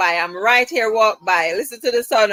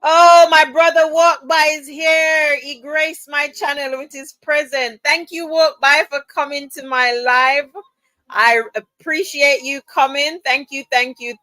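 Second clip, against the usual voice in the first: excited greeting; 4 semitones higher than usual. Real, not acted. Welcoming her brother to the live, excited. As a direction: welcome him in with delight.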